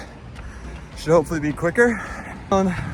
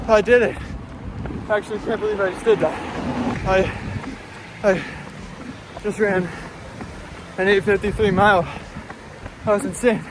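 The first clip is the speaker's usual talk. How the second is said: excited; 4 semitones higher than usual. Real, not acted. Just finished the run.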